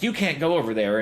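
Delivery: nerd rage voice. Retold or imitated. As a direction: scold like an irritated store nerd. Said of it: "in his best nerd rage voice".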